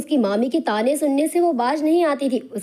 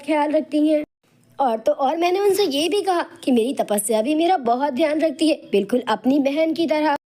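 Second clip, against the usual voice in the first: lightly voiced pleading niece, higher pitch; 4 semitones higher than usual. Anjali defends herself to her aunt, mildly pleading.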